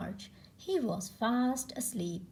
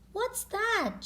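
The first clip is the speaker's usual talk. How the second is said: high startled question; surprised child; 12 semitones higher than usual. Acted. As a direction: ask in sudden surprise, much higher. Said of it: "she asked".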